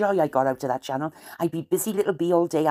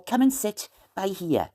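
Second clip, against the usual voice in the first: Wenglish phrase; 3 semitones higher, slower than usual. Shown as a demonstration. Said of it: "but we say".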